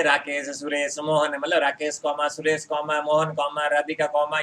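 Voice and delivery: item-by-item "Rakesh comma, Suresh comma"; pauses at commas. Shown as a demonstration. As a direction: list "Rakesh, Suresh, Mohan" with short stops. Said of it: "कुछ समय के लिए रुक रहा हूँ".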